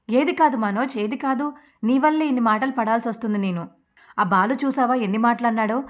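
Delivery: hurt and furious, pitch climbing; wife scolds her husband for lying about the money, angry; angry confrontation. Acted. Wife confronts husband over lies.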